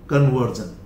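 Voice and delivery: कन्वर्जन ending in a voiced "zhan"; American pronunciation. Shown as a demonstration. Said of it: "ये American है". (कन्वर्जन, अंत में "ज़न")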